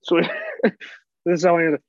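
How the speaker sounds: a lightly put-on phone voice; phone answering voice. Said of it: "What's your phone answering voice".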